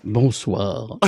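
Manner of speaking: low, smooth evening greeting; suave voice. Real, not acted. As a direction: purr it suavely. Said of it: "D'une voix suave, dit-il".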